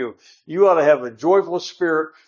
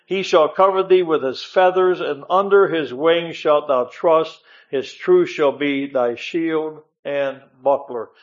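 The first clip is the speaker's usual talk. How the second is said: raised, solemn preaching read of the Psalm; scripture reading. Acted. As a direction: proclaim the verses to the congregation. Reads Psalm 91 aloud.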